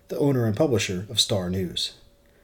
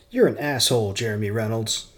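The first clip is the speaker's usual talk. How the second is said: angry. Acted. Furious intern insults him.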